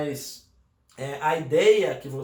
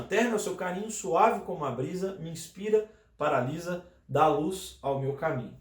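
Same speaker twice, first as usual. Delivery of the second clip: reading the whole verse aloud, lines flowing "Terno é o seu carinho" to "dá luz ao meu caminho"; poem recital. Shown as a demonstration. Teacher reciting the finished poem to students, poem recital. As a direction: recite it as one poem for the class. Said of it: "Então, ficou assim, ó".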